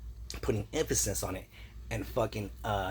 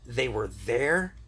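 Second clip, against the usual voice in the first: slow rising "there", doubting; slow incredulous echo; 3 dB louder, much slower than usual. Shown as a demonstration. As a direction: repeat "there" slowly, as a sceptical question. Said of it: "the same thing of them saying they were there".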